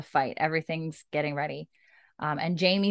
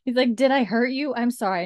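laughing; 6 semitones higher, 7 dB louder than usual. Real, not acted. Laughing while voicing Roger.

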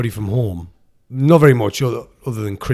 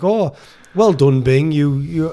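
mock praise; 2 semitones higher, slower than usual. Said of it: "it's like".

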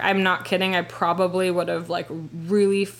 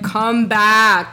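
louder mock call from a window; retold yell; 6 dB louder than usual. Imitating ex calling from balcony window, mild yell. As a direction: call out, without a full shout. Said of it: "he, like, yells at me".

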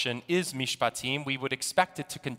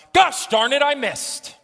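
loud, high golfer's yell; frustrated shout; 10 semitones higher, 8 dB louder than usual. Acted. Golfer yells at his ball, high and loud. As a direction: yell it at the missed shot. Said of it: "Congregant shouts".

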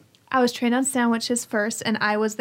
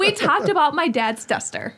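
high and laughing; said through a laugh; 4 semitones higher than usual. Real, not acted. Repeats line, laughing.

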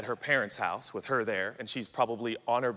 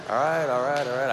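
exasperated giving in; 6 dB louder than usual. Acted. Cut off, giving in to partner.

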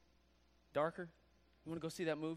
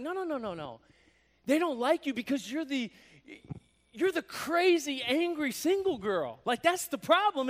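put-on louder, higher bitter rant, slowing on crazy angry single girl; cynical rant; 4 semitones higher, 5 dB louder than usual. Woman ranting to herself about single girls, cynical and loud. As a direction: spit out the bitter verdict. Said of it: "it's like".

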